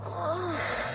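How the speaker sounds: soft, high "ugh"; retold dismayed gasp. Child retells seeing brother punched, soft imitated groan. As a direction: act out a hushed groan of dismay.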